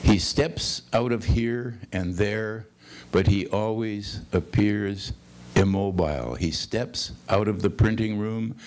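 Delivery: measured, lilting poem recital; steady literary read-aloud; poetry reading. Acted. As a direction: read the poem in linked phrases, lifting the questions.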